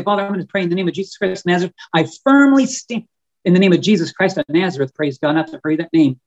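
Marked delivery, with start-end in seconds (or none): 0.0-4.9 firm prayer. Shown as a demonstration. Showing listeners how to pray, a firm declaration. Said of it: "you can say".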